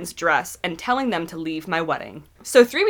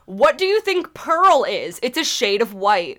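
exasperated; 4 semitones higher, 4 dB louder, slower than usual. Real, not acted. Exasperated at excuse.

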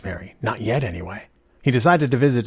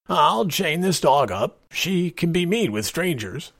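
slow, higher-pitched friendly voice; cordial; 8 semitones higher, slower than usual. A narrator's reading. Father to a stranger about the dog, cordially. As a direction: reassure a visitor, taking your time. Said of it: "he said cordially".

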